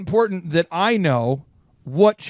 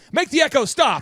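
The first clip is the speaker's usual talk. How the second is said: raised, higher-pitched comic plea; mock exasperation; 7 semitones higher than usual. Host begging co-host to end the bit, mock exasperation. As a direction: cry out as if plagued by echoes.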